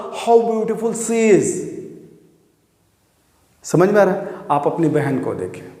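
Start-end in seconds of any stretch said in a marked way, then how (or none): 0.1-1.5 slow, wondering How beautiful she is; sudden admiration. Shown as a demonstration. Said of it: "किसी को देख के आपने बोला".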